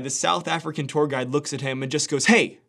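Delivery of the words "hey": sharp warning. Retold or imitated. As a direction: snap the dad to attention. Guide stops dad abruptly.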